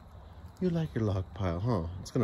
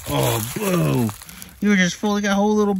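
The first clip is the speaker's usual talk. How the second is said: high, loud cooing at the cat; 10 semitones higher, 6 dB louder than usual. Real, not acted. Owner coos loudly at his burr-covered cat.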